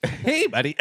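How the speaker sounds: imitating a perfect radio voice, laughing. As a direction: play a smooth radio host. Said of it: "A guy with a perfect radio voice".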